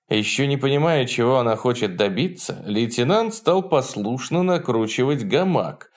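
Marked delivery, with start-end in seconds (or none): none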